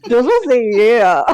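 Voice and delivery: laughing drawl. Real, not acted. Laughing drawn-out echo.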